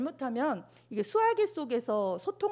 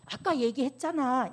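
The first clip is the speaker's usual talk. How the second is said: irritated; 3 semitones higher, 3 dB louder than usual. Shown as a demonstration. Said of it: "이러지 마시고".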